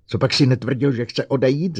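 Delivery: loud, high angry roar. Acted. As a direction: bellow it at the robot. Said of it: "zařval Bogert".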